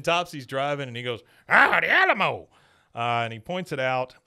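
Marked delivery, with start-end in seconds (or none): 1.5-2.5 high, loud mock excitement; imitating an old man's delighted cry; excited exclaim. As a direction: announce the landmark with a hammed-up thrill. Topsy points out the Alamo.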